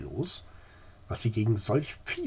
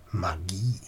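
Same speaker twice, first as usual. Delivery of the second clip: whisper; 4 semitones lower than usual. Acted. Lady's shocked inner thought.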